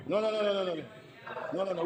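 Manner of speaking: emphatic refusal. Real, not acted. Rejecting the situation in the chamber.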